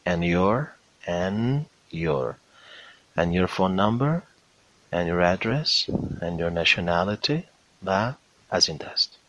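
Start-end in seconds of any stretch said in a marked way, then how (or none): 0.1-7.4 "And" said only up to the N, running into "your"; silent D. Shown as a demonstration. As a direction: drop the D in "And your", saying an' your. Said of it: "دی رو تلفظ نکنید". («And your» بدون تلفظ d، فقط تا حرف n)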